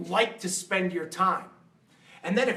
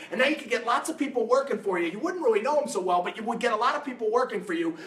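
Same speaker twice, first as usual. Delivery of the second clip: wealthy guy; 3 semitones higher than usual. Retold or imitated. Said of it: "He goes".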